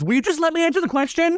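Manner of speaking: high, mock frantic protest; imitating a freak-out. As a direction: fake an exasperated outburst, pitched high. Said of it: "freak out in the exact same manner".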